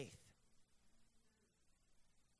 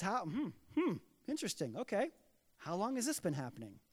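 unfazed; 4 dB quieter than usual. Acted. Jesus unfazed beside writhing boy.

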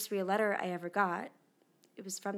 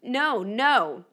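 put-on kids' whine; 6 dB louder, slower than usual. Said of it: "they kept saying".

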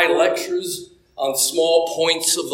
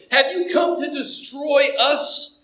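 scary demon voice; 7 semitones higher than usual. Acted. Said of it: "crying out in an unearthly, scary voice".

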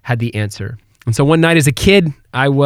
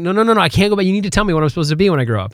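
put-on higher, urgent kid's plea, fast at the end; pleading child; 5 semitones higher, much faster than usual. Young son begging his dad at bedtime, urgent and higher. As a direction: beg like an anxious little boy. Boy begs father for an answer.

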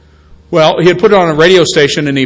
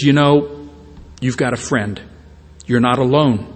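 mildly tender quoted voice, a little low and soft; gentle comfort; 3 semitones lower, 5 dB quieter than usual. Acted. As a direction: quietly reassure someone who feels broken. Voicing Jesus comforting the broken.

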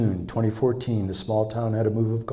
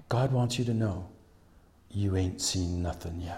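soft, sinking delivery; low and soft, letting it land; hushed retold prophecy; 4 semitones lower, 8 dB quieter than usual. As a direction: pass on the prophecy quietly. Retells woman's parting prophecy, hushed.

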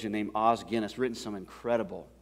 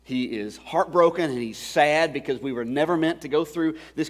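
raised, insistent sermon delivery; impassioned preaching; 6 semitones higher, 7 dB louder than usual. Real, not acted. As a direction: press it home to the congregation. Preacher presses the point home.

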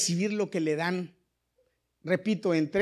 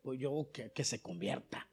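nephew's excuse; 6 semitones lower, 11 dB quieter than usual. Retold or imitated. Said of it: "yo le dije al Señor".

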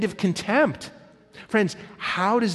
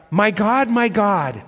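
loud anguished cry, pitched higher; 4 semitones higher, 6 dB louder, slower than usual. Acted. Jesus on the cross crying out to God, loud anguish. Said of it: "the intensity, the passion".

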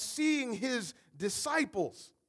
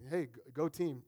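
sarcastic; 7 semitones lower, 8 dB quieter than usual. Retold or imitated. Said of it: "And like".

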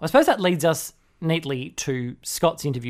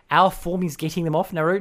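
incredulous mock quote; 6 semitones higher, 5 dB louder than usual. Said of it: "My head is exploding".

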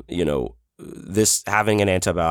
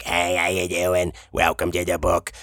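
audiobook narrator greeting. Shown as a demonstration. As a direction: lay on the smooth book-narration voice. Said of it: "So it's not a, like".

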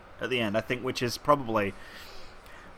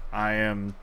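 K2 deadpan; 3 semitones lower, slower than usual. Retold or imitated. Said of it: "And he's like".

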